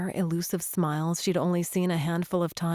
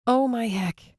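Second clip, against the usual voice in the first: flustered sputter; 4 semitones higher than usual. A narrator's reading. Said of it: "she sputtered".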